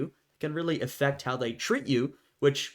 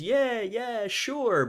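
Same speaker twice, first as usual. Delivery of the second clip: high, breezy fake agreement; dismissive agreement; 10 semitones higher, much slower than usual. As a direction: brush it off like empty promises. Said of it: "And everyone says".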